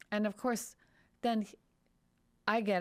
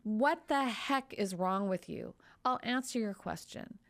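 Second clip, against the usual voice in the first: indignant outburst; 2 semitones higher than usual. Retold or imitated. Voicing the doctor's feelings to the lawyer, indignant. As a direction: play the doctor's anger at the stupid question. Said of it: "I'll, I'll do this part".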